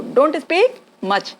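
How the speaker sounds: slow demo. Shown as a demonstration. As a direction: drill it slowly. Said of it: "क्या बोलेंगे".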